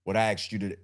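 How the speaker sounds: lightly voiced stern dad; a hint of a dad calling the kids to order; a touch of a father telling a child to sit down. Shown as a demonstration. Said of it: "if I'm in my father voice".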